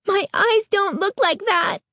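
high desperate wail; horrified wail. A narrator's reading. Girl rejecting her reflection, high horrified wail. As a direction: plead against what she sees. Continued horror at mirror.

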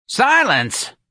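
high, loud snarled command; snarling old woman. A narrator's reading. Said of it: "Miss Trixie snarled".

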